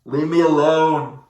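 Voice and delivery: slow whiny hammed-up sob voice; fake-wail like a sulking child; mock crying. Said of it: "they're crying and be like".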